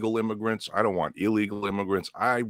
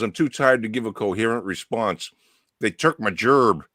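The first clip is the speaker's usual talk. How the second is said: dopey blunt man; 2 semitones higher, 3 dB louder than usual. Retold or imitated. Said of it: "Blunt man says".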